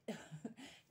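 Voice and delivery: brief self-mocking chuckle; little laugh breaking into the sentence; small laugh. Real, not acted. Vlogger confesses an impulse buy, small laugh.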